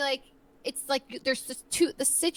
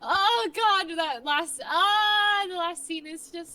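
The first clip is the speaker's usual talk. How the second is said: overcome with emotion; 6 semitones higher, 5 dB louder, slower than usual. Acted. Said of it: "It's so much emotion in that. You're like".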